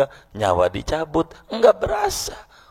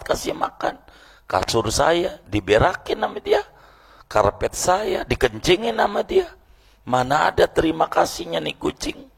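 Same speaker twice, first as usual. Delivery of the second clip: indignant defendant; 7 semitones higher than usual. Retold or imitated. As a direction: plead your case with rising outrage. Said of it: "Dia jawab".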